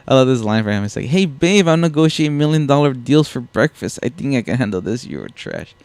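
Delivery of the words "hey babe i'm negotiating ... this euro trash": mock-cocky dealmaker, starting higher. Quoting Ellis boasting about his deals, mock cockiness. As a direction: brag it like a slick hotshot, lightly imitated. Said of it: "like, this cockiness with it".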